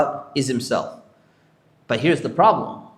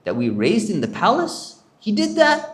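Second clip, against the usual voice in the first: mad disbelief; 5 semitones higher than usual. Retold or imitated. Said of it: "He was really mad".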